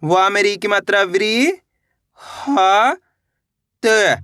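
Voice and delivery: very slow, each syllable drawn apart. Shown as a demonstration. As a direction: spell it out slowly, piece by piece. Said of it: "इस तरीके से". (अक्षर-अक्षर धीरे-धीरे)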